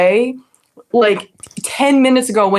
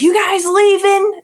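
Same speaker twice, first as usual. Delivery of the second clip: higher, slow, mocking the boaters' question; mock eager question; 11 semitones higher, slower than usual. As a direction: ask it like a pushy stranger butting in. Strangers in boat asking.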